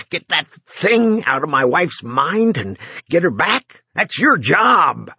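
shaky, breathless demand; panting and shaking. Acted. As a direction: plead through shaking breaths. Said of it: "still panting and shaking".

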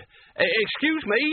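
high, polite and nervous; timid excuse me. A narrator's reading. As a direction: squeak it out politely. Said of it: "Nigel tried again".

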